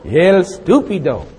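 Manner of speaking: slow, wry mock Spanish; self-mocking verdict. Real, not acted. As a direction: call yourself a fool, slowly. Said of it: "self-mockery after laugh".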